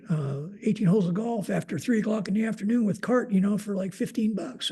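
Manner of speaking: a hint of a polite employee's excuse. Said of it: "he was a really polite gentleman".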